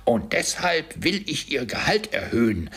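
high, emphatic proclamation; triumphant announcement. A narrator's reading. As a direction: build the threat, then proclaim it. Scrooge's shouted mock threat turns out raise. (triumphierend, mit hoher Stimme verkündet)

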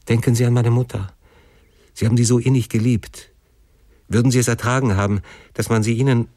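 understated anguished appeal; imploring. Acted. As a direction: beg your father to relent, pitch held high. Son implores father on his knees.

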